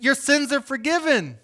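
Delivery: high and loud, proclaiming; bold declaration. Retold or imitated. Jesus proclaiming forgiveness over the man, loud and high. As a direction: announce it boldly to the whole room. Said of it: "He's like".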